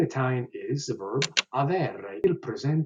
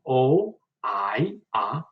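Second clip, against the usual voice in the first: conjugation drill; slower than usual. Shown as a demonstration. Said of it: "So one more time".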